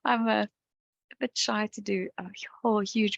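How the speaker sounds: giggly. Real, not acted. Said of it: "I keep wanting to giggle".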